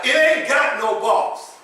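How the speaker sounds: slow Compton vernacular, leaning on ain't. Shown as a demonstration. Preacher repeats the verse Compton style, slow and deliberate. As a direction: lean into the Compton phrasing. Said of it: "the way we say it in Compton".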